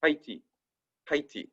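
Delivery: "Haiti" run together into two syllables, HAI-tee; wrong pronunciation. Shown as a demonstration. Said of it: "If the tréma wasn't there".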